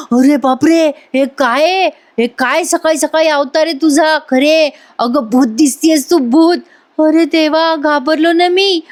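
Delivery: hammed-up husband startled by his wife's ghostly look; mock scared. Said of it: "तो घाबरतो आणि म्हणतो". (थोडा नाटकी घाबरलेला आवाज)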